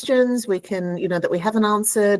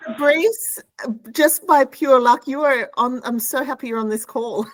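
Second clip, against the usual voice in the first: thrilled to welcome the winner; excited; 6 semitones higher than usual. Real, not acted.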